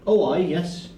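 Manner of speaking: high-pitched, obliging servant; servant character. Acted. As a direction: answer the door as a high-voiced servant. Game master plays the servant Colin.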